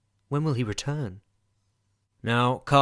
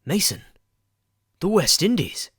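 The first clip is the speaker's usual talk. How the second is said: shocked; 6 semitones higher, 4 dB louder than usual. Acted. Shocked at Mason's arrival.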